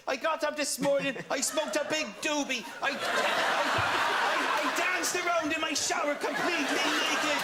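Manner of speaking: hammed-up bad Irish accent, a boastful confession; playing his Irish bandmate with a bad Irish accent, half-laughing; his bandmate in a bad Irish accent. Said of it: "you're doing a bad Irish accent".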